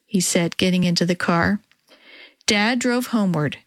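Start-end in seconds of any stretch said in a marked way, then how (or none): none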